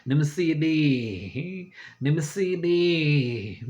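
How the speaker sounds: mocking repeat.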